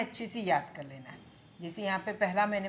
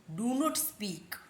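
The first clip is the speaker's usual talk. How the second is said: slow, stretched teaching phrase; slow model; much slower than usual. Shown as a demonstration. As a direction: model it slowly for learners. Teacher slowly models the translation. (धीरे-धीरे बोलकर सिखाते हुए)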